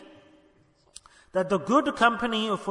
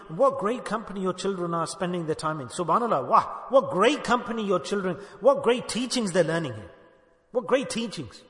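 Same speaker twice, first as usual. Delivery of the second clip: dry mock admiration, a little softer; sarcastic praise; 3 semitones lower, 3 dB quieter than usual. Real, not acted. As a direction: praise it so they hear the scorn. Sarcastic praise of bad company.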